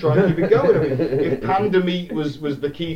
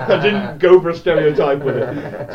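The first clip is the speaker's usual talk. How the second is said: louder, laughing as they speak; real laughing; 6 dB louder than usual. Real, not acted. Podcaster defending their accent attempt to friends, laughing. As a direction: talk through your own laughter.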